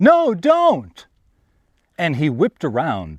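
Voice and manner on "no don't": very high, shrill, loud, fearful scream. Telling a story, the speaker replays calling out to a man, retelling a scream. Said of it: "I screamed out to him".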